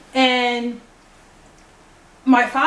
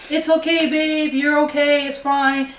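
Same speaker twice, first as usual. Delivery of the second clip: put-on girlfriend's soothing reassurance, slightly raised pitch; imitated calming; 3 semitones higher, slower than usual. Girlfriend calming a scared partner on the phone, imitated soothing. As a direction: act out calming someone down. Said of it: "She's calming me down".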